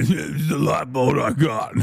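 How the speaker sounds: mocking repeat. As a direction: parrot his words back through a laugh.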